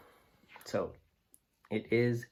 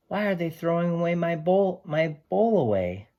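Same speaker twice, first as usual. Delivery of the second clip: higher, mildly dismayed question; 9 semitones higher, 8 dB louder than usual. Acted. Sam wondering why his bowl is in the bin, higher and puzzled. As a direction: sound puzzled and a little upset.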